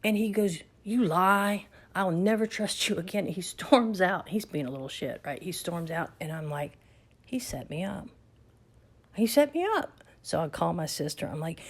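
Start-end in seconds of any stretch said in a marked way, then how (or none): 0.8-3.2 louder, hammed-up hurt child; mock angry child. Grandson storming off, retold. 9.1-10.0 much higher, louder cry of disbelief; indignant outburst. Retold or imitated. Realizing she was played.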